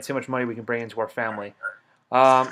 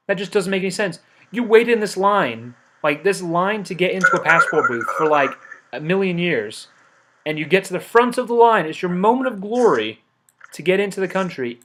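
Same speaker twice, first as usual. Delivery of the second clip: higher, louder exasperated rant; mock rant; 5 semitones higher, 4 dB louder than usual. Guard ranting at an entrant who wasted the queue's time, higher and louder. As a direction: lay into him with theatrical outrage.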